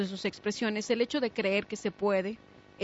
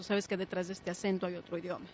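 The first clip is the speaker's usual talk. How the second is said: quoted retort; 3 semitones lower, 9 dB quieter than usual. Retold or imitated. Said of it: "él contestó".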